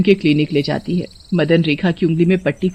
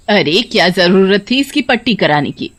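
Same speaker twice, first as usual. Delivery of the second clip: understated mother-in-law scolding; mild anger. Acted. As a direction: scold with a touch of annoyance. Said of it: "माँ गुस्से से बोलती है". (सास का हल्का गुस्सा)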